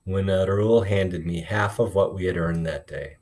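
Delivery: expressive read-aloud, voicing each character lightly; storytelling voice for a classroom; story read aloud to class. A narrator's reading. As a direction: read the chapter to the kids, bringing the dialogue to life. Teacher reads novel aloud to class.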